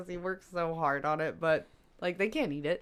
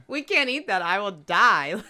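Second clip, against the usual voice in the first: laughing mock protest; 6 dB louder than usual. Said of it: "And we're like".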